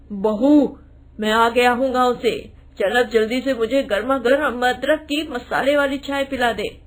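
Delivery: lightly voiced father-in-law calling for tea. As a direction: call the daughter-in-law for tea. Father-in-law back from village. (हल्की सी ससुर की आवाज़)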